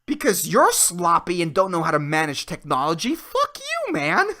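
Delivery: retold yell back. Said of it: "I'm like".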